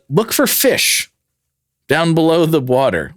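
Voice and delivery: high, slow mock wonder; mock dreamy. Imagining spotting fish from the sky, mock dreamy. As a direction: stretch it out like a daydream.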